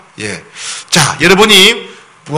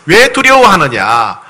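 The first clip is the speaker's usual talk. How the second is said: sorrowful plea; 4 dB louder, slower than usual. Shown as a demonstration. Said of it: "너무 안타까운 모습".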